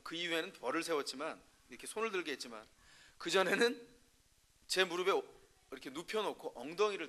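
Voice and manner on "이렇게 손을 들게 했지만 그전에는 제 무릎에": ordinary talk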